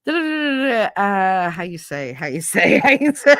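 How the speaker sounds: fumbling Italian-accented grandmother, lightly mocked; grandmother's Italian. Grandmother groping for English words, high mock voice. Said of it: "I'd laugh because she would".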